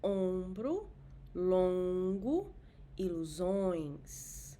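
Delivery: ombro, longo, ilusões repeated, slow ending; ilusões slowly through the nose; nasal vowel drill. Shown as a demonstration.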